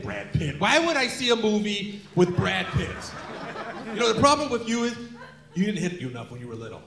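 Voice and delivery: lightly voiced cranky old dad; a hint of a scolding elderly father; mildly indignant old man. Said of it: "that's my old voice".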